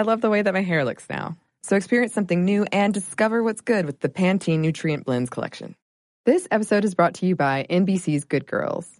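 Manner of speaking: polished, upbeat sponsor read. Acted. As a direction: sell it like a podcast advert. Reads a sponsor ad.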